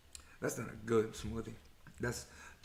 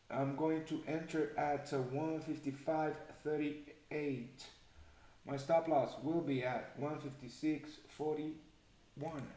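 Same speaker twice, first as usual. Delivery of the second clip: odd measured delivery; 3 dB quieter than usual. Real, not acted. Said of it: "I don't know why I'm talking like this".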